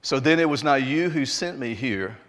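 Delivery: measured, deliberate Bible reading aloud; scripture reading. Acted. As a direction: read the passage out with weighted key words and pauses. Rereads scripture aloud to congregation.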